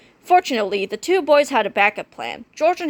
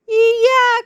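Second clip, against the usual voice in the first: high, scared yeah; frightened cry; 13 semitones higher, 6 dB louder than usual. A narrator's reading. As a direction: blurt it in fear. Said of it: "cried Harold".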